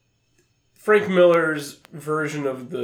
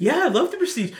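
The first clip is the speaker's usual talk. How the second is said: cop voice; 11 semitones higher than usual. Retold or imitated. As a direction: play a gentle cop who loves films. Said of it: "a hell of a cop voice that you're doing".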